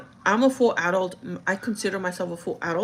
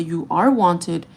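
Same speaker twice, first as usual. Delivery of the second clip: slow, stressed "are" in retold reassurance; emphatic insistence; 3 dB louder, much slower than usual. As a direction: stretch "You are wanted" with weight on "are". Repeats the reassurance to grandma.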